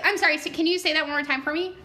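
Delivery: high, quick, patronizing politeness; exaggerated polite request. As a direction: coax a mumbler to speak up. Stranger asks player to repeat, speak up.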